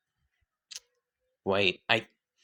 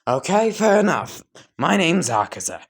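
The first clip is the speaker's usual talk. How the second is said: brash; 6 semitones higher, 4 dB louder than usual. Acted. Brash fighter introduces himself.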